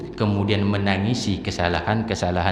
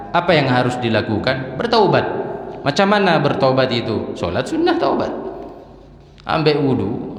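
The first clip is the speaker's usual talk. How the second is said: high, loud, impassioned preaching; fervent pulpit preaching; preaching at full force; 5 semitones higher, 4 dB louder than usual. Acted. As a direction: drive the point home to the congregation. Preacher raises voice again.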